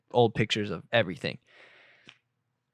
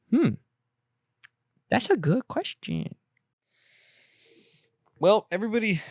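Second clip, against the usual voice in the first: bad acting; 11 semitones higher than usual. Hammy pondering voice.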